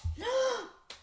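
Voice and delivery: high, sharp intake of breath; shocked gasp. Acted. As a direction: gasp in mock horror. Shocked by the rude name.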